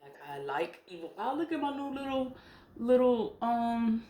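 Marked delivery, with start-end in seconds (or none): 1.2-4.0 quick, high, delighted showing-off; excited. Real, not acted. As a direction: gush over a new trinket, fast and high. Shows off new charms on camera.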